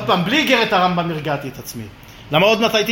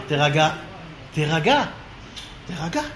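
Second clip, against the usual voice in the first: הרגעה עצמית; 4 semitones lower, 4 dB quieter than usual. Retold or imitated. מרגיע את עצמו בסיפור.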